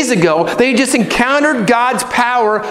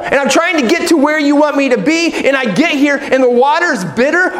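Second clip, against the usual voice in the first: exasperated complaint; 3 semitones higher than usual. Acted. Voicing a desperate complaint to God.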